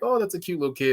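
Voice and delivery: fake-sweet compliment to the customer; mock cheery waitress. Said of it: "They're trying to connect".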